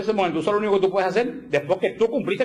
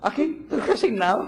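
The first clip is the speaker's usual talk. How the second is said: mock glum resignation; 8 semitones higher than usual. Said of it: "te resignas con una cara de caballo".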